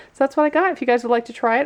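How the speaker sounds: upbeat summary to the viewers; bright sign-off. Real, not acted. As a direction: lift it up for the outro.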